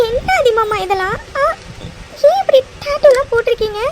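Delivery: upset, tearful questioning; tearful wail. Acted. Wife upset at husband's tattoo, tearful wail. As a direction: wail it at him in distress. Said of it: "இப்போ எதுக்குடி நீ அலற".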